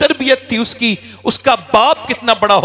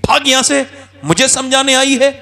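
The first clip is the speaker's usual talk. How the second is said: higher, louder angry bark; angry shout; 5 semitones higher, 3 dB louder than usual. Acted. Chaudhry throws his daughter-in-law out, angry shout. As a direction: drive her out angrily. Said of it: "दूसरी लात मारी".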